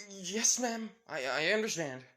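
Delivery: high, stammering reply; cowed submission. Acted. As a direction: give in hastily to mom. Cowed son gives in to mother.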